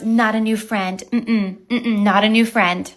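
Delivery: lightly voiced prissy neighbor; mocking the neighbor. Neighbor pulling her poodle away, lightly mocked sing-song. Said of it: "she jerks the dog back and she goes".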